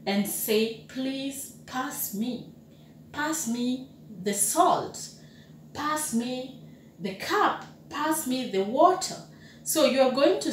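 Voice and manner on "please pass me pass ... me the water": a soft, courteous table request; polite request. Shown as a demonstration. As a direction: ask gently at the table. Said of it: "a polite way of saying".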